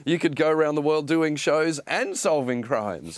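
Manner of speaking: exaggeratedly encouraging retold dad voice. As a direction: build a child up, leaning hard on "both" and "and". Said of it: "I wanna be really encouraging here".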